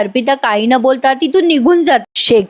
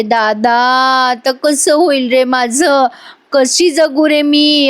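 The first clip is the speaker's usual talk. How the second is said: very slow, rising fake lament; hammed-up tearful plea, much slower; mock sobbing; slower than usual. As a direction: stretch each word out like a put-on cry. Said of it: "पुन्हा रडायला लागते".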